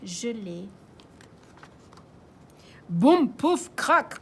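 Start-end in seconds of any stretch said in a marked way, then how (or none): 2.9-4.1 crash effect. Acted. Crash sound effect in story.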